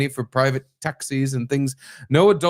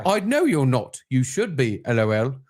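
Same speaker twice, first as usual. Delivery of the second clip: put-on English accent. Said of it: "I'll do the English accent for the girl".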